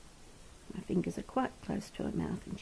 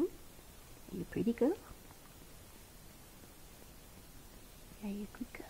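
tender pet talk; 2 semitones higher, 6 dB quieter than usual. Real, not acted. Carer soothing the baby animal, softly cooing. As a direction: coo gently to the little one.

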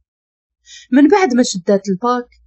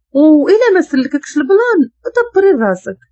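higher, louder take-it-or-leave-it threat; curt warning; 6 semitones higher, 3 dB louder than usual. A narrator's reading. Safaa tells Nour to decide or fend alone, curt. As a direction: throw down the ultimatum.

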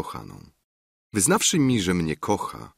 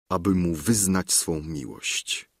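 ordinary delivery

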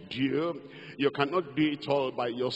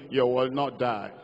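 ordinary delivery

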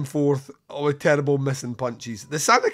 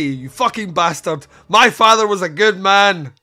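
mock angry line; 4 semitones higher, 8 dB louder than usual. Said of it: "she manages to say".

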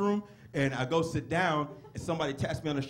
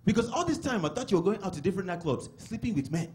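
imitated Nigerian father, mildly relieved; relieved dad. Dad learning his son does stand-up, mock relief. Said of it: "he let out this really big sigh of relief".

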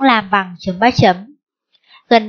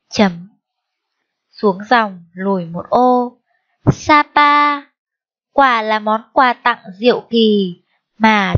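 slow, measured read-aloud with held syllables; phrase by phrase, stretching key words on a sustained note; dictation reading. Shown as a demonstration. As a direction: read it out for children checking their writing, punctuation spoken. Reads a dictation back.

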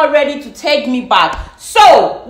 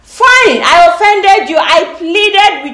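angry outburst; 5 semitones higher, slower than usual. Real, not acted. Heated argument, raised voice.

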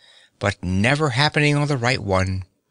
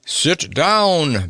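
put-on a higher, begging old gentleman; pleading old man; 6 semitones higher than usual. A narrator's reading. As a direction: beg them kindly to sit. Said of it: "begged the old gentleman".

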